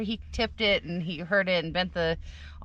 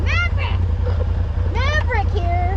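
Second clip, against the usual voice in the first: high, loud Top Gun cheer; excited shout; 13 semitones higher, 9 dB louder than usual. Pretend. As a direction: yell it like a fighter pilot. Calling out Top Gun lines.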